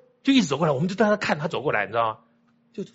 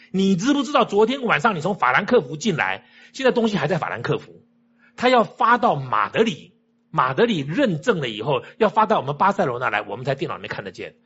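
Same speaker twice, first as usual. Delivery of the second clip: imitating an exasperated clerk, raised pitch easing down; 非常生气; 3 dB louder than usual. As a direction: lecture crossly as the retold official, emphatic then settling. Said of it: "非常生气的对着我们说". (模仿办事员生气地训人，语气渐缓)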